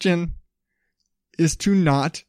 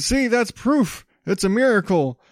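mock pastor voice; 3 semitones higher than usual. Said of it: "He said".

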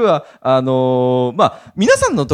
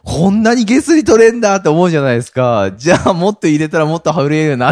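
eager greed; 3 semitones higher, 5 dB louder than usual. Retold or imitated.

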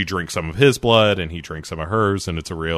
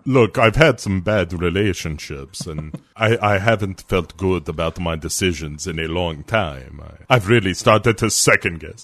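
mock Dracula confession. Voicing Dracula's reply jokingly.

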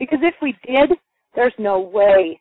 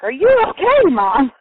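put-on high, a worried little girl asking; worried child's question, higher and louder; 5 semitones higher, 4 dB louder than usual. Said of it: "Caitlin's like".

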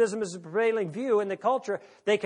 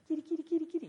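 a much higher, sing-song kitty kitty; mock cat call; 11 semitones higher, 5 dB quieter, much faster than usual. Speaker mimics a teasing kitty call at Gil, high sing-song. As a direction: tease like calling a cat. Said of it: "You know, one of these".

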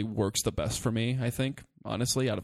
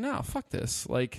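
mock pissed rant; 4 semitones higher than usual. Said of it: "I was just pissed".

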